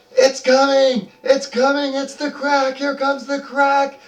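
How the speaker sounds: very high, loud, excited goblin chant; squeaky goblin crowd cheering. Acted. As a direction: chant like a gleeful mob of goblins. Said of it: "They're all".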